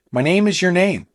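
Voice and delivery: "My name is your name." ending on a lifted, unsure note; rising question tone. Shown as a demonstration. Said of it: "the upward tone at the end".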